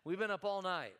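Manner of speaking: tired, complaining fisherman; whiny excuse. Retold or imitated. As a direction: lay out the excuses wearily. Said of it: "the translation of that is".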